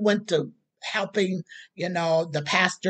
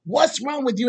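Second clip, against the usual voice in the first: higher, fast, incredulous wife; baffled wife questioning her rushing husband; wife's surprise; 5 semitones higher than usual. Retold or imitated. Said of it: "It's just like".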